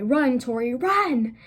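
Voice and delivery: mock yell of a coach, rising on the last run; retold scream. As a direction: bark it like a PE coach, lightly. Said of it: "She would scream at me".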